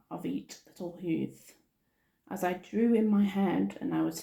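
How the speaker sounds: measured storybook verse reading; lilting read-aloud, line by line; poem reading. Acted. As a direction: read the Christmas rhyme aloud in steady cadence. Reads a Christmas poem aloud.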